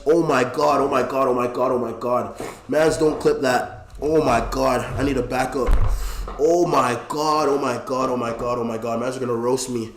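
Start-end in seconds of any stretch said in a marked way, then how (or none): 0.1-2.4 groaning through a leg cramp; pained moaning, fading away. Real, not acted. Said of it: "I'm cramping, guys". 4.0-9.0 strained, hurting from a cramp; pained groans trailing off; leg cramp. Real, not acted. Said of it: "I'm cramping".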